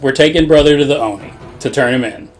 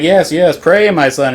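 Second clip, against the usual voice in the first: mock priest; 3 semitones higher, slower than usual. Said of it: "He's like".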